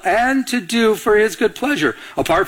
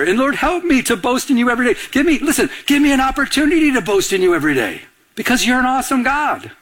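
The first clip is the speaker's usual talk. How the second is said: fervent prayer; 6 semitones higher, faster than usual. Acted. Spoken prayer in sermon.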